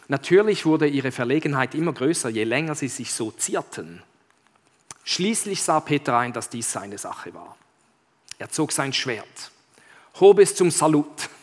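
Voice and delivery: measured, expressive read-aloud; story narration. Acted. Pastor reads Narnia to the congregation, expressive storytelling. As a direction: read it out like a tale, leaning on key words.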